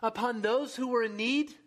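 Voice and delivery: a touch of indignant pleading; Job crying out. Acted. Job defending his cry to God, mildly indignant. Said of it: "Job cries out to God".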